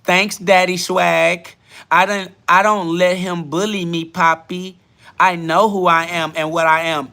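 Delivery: mock accent, stretching the words; Demon Time's accent. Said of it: "I didn't say it in that accent".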